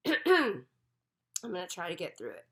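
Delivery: odd voice from a cold; helium voice. Real, not acted. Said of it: "I sound like I'm on helium".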